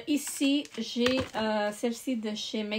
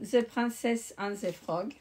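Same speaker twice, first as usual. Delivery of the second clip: English title in a French accent; slow, careful French-accented English. Real, not acted. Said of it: "désolée pour mon anglais".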